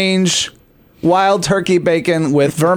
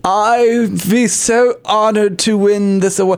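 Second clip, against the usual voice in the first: snobby aristocratic voice; 3 semitones higher than usual. Pretend. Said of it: "snobby aristocratic voice".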